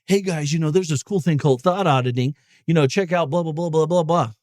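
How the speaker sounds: a light parody of a bland, uncaring advisor; mock casual indifference. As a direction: shrug it off in a low, careless mock voice. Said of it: "No, I'm yelling because I'm care".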